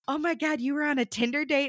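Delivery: gasp-worthy gossip with a hint of sass; sassy waiter. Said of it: "he's this very sassy man".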